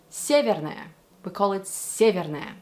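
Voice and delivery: "Severnaya" stressed on the first syllable, Russian style; native Russian pronunciation. Shown as a demonstration. Coach telling what Russians call it, native pronunciation. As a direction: say "Severnaya" as SYE-ver-na-ya. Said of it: "Whereas in Russia".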